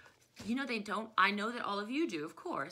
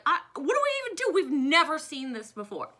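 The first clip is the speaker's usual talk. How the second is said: panicked soldiers; 6 semitones higher, 6 dB louder than usual. Retold or imitated.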